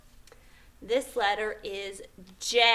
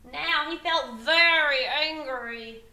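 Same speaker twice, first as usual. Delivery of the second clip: dramatic narration; 3 semitones higher than usual. A narrator's reading. Teacher building up the peddler's temper, dramatic narration. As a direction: stretch out the anger for young listeners.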